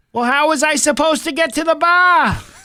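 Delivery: put-on failed, overdone New Jersey accent, very high pitch. Imitating a mayor arrested for drunk driving: bad New Jersey accent. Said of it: "That's not a New Jersey, uh, accent".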